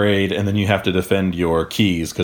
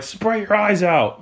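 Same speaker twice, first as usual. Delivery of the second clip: much higher, slow put-on order; mock instructor; 12 semitones higher, slower than usual. Mocking the academy instructor telling recruits, high slow put-on voice. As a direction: drag out the silly command in a high voice.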